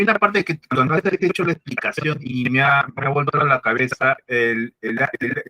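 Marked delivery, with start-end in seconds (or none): 3.1-5.4 echo. Real, not acted. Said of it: "está un poco de eco".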